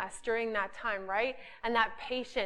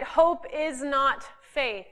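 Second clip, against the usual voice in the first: slow, emphatic statement; slower than usual. Shown as a demonstration. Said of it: "Everyone got that?".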